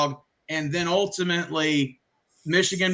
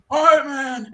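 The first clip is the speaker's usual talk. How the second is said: reluctant agreement; 7 semitones higher, 6 dB louder, slower than usual. Retold or imitated. Coach answers the ref.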